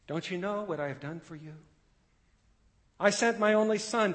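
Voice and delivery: voicing God, earnest and rising; God pleading. Preacher speaking as God to the congregation, earnest plea. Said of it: "God is asking us the same question".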